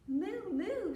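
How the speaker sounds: high, loud mooing; pig mooing. A narrator's reading. Storyteller as the pig who caught the moo, loud mooing. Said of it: "said the pig".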